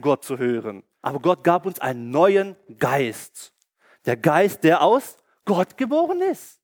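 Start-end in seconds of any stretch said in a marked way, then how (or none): 4.0-6.6 rising excitement. Acted. Preacher builds to Halleluja.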